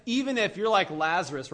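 normal talking voice

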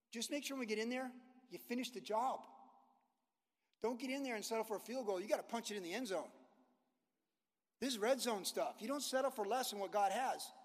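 put-on rally the team like an old coach; Caleb's pep talk. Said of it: "he would have told them".

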